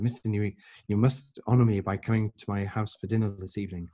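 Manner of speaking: lightly imitated Indian accent. Grateful man inviting his boss to dinner, light Indian accent. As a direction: give the invitation a hint of Indian English. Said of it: "in an Indian accent".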